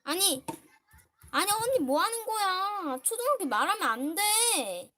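loud, high-pitched wail of protest; real alarmed protest. Real, not acted. Girl stopping her sister revealing the school, loud upset protest. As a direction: cry out at full voice to stop them.

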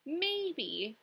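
storybook bird, lightly chirped; chirpy bird. A narrator's reading. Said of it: "chirped the bird".

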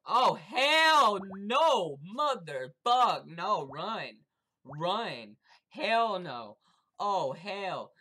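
very loud, high, drawn-out panic; panicked screaming. Real, not acted. Gamer fleeing the biggest player, screaming in panic. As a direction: scream as you run for your life.

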